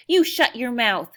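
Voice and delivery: loud, slow Texas bark; shouted. A narrator's reading. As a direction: slam each word down like a furious cowboy. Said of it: "shouted the little man".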